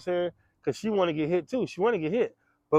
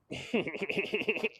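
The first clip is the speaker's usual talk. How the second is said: sinister death laugh; 2 semitones higher, 10 dB quieter than usual. Retold or imitated. Brother sitting there plotting, soft sinister laugh. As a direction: give a quiet evil chuckle. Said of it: "a little sinister death laugh".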